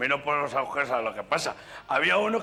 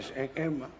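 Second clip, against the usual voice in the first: much higher, laughing nasal-voiced fretting; nasal stammerer; 9 semitones higher than usual. Nasal passenger can't warn the driver, hammed-up nasal fretting. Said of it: "compañero gangoso".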